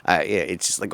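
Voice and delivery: usual speaking voice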